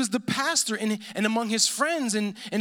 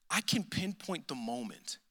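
soft, low emphasis; 5 semitones lower, 9 dB quieter than usual. Real, not acted. Sermon, dropping voice for emphasis.

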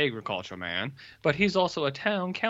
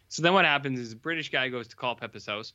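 normal talking voice

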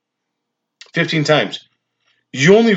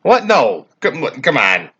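mock disbelief. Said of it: "without even being like".

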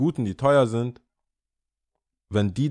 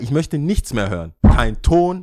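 sharp retold order; 3 semitones higher, 6 dB louder than usual. Retold telling off.

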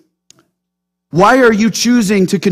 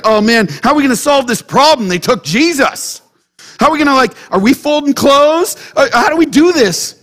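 flustered, higher-pitched mock fretting; mock panic; 5 semitones higher than usual. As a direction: act out a mild, hurried panic. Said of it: "Are they panicked like".

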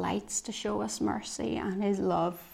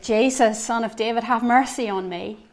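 a louder retold cry for mercy; mock shout; 2 semitones higher, 6 dB louder than usual. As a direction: call out to Jesus, raised but held back. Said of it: "Bartimaeus shouted".

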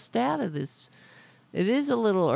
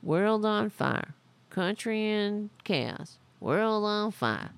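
slow, grand campaign slogan delivery; mock rally speech. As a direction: drag each slogan out like a stump speech. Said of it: "that's why I can get up here and be like".

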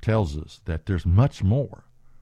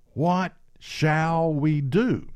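pleading crowd; 5 semitones higher, much slower than usual. Acted. Quoting the people's response.

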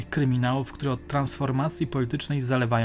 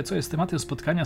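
usual speaking voice

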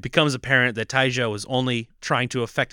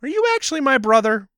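mock Speed; 10 semitones higher, 6 dB louder than usual. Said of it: "And he's like".

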